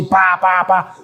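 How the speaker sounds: "pa, pa, pa" as mock punch sounds; imitated punches. Preacher mimicking Israel punching God, imitated punches. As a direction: voice repeated blows as short syllables. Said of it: "dándole puñetazos en la cara de Dios".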